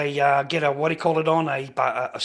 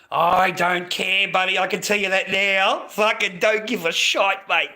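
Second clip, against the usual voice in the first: defiant rant; 5 semitones higher, 3 dB louder than usual. Real, not acted. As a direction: stretch the words out, pitched up and pushed. Dismisses critics in a rant.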